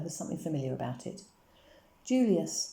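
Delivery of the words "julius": higher, louder cry of the name. A narrator's reading. Papa seeing the old silver watch, crying out the name. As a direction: recognise the watch with a sudden cry. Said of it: "cried Papa".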